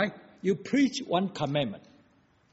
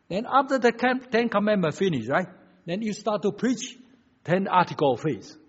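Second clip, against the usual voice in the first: raised, louder preaching voice; emphatic preaching; 6 semitones higher, 7 dB louder than usual. Real, not acted. Preacher to congregation on ten articles of faith, emphatic preaching. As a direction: press the point to the congregation.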